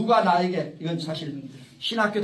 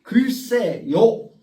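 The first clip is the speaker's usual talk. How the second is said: 글쎄 요 drawn out very slowly and louder, each syllable apart; slow demonstration; 4 semitones higher, 6 dB louder, much slower than usual. Shown as a demonstration. Lecturer explaining his book title to the audience, slow and louder. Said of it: "내가 읽는 것은 뭐냐면".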